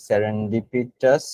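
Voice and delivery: slow spelled-out word. Shown as a demonstration.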